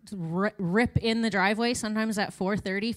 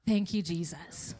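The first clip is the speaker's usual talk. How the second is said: relieved thanks; 5 semitones lower, 4 dB quieter than usual. Retold or imitated. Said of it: "we're like".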